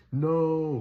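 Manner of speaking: high, loud desperate no; retold scream. Father in the dream yells at the figure taking his baby, loud cry. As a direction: cry out to stop the dark figure. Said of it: "as I'm screaming out loud in this dream".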